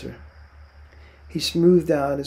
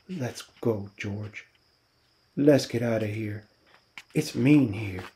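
eager; 2 semitones lower than usual. A narrator's reading. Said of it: "he leaned eagerly toward him".

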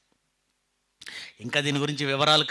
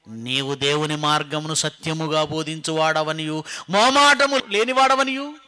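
scripture recitation; 7 dB louder than usual. Acted. Preacher quoting the enemies' words about Jesus, loud recitation. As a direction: proclaim the verse, rising on the last phrase.

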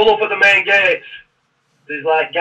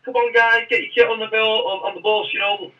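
lightly acted friendly chivvying, higher pitch; friendly sergeant; 6 semitones higher than usual. Drill sergeant to new recruits at the station, mock friendly. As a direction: imitate a chummy, easy-going instructor. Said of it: "getting nice and friendly".

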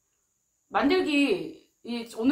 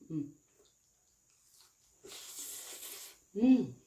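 humming while chewing food; mouth full, chewing; 4 semitones lower, 8 dB quieter, slower than usual. Real, not acted. Seen 1: bites fried piece held by hand, chews, mouth full throughout.

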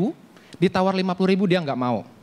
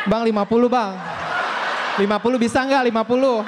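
higher, pleading with the seller; coaxing plea; 4 semitones higher than usual. Acted. Woman coaxing seller down to fifty, pleading. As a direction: wheedle the price down with a lift.

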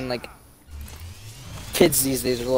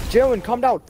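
mock pleading; 8 semitones higher, 3 dB louder than usual. Voicing someone calming him down.

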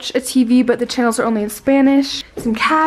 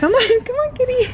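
high coaxing kitty call; 11 semitones higher than usual. Real, not acted. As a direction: coax the cat in a high voice. Calling the cat.

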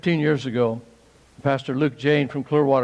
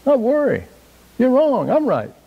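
higher, louder hammed-up protest at God; self-mocking loud defiance; mock defiant shout; 10 semitones higher, 5 dB louder than usual. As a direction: argue back like a stubborn child. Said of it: "I looked at that scripture and I said".

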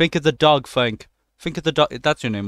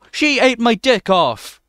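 shocked gasp; 10 semitones higher, 6 dB louder, slower than usual. Real, not acted. Shocked at game event.

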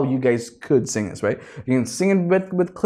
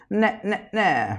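pharyngeal nah; 7 semitones higher, 4 dB quieter, slower than usual. Shown as a demonstration. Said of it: "push it more towards your pharyngeal sound".

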